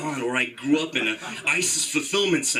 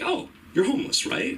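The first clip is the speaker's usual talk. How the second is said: mocking stranger; 11 semitones higher than usual. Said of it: "they're like".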